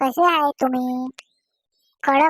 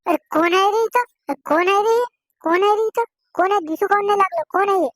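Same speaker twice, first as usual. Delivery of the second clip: raised, questioning call; 5 semitones higher than usual. Acted. Shopkeeper asking who is there, calling out. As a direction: call into the dark, pitch lifted.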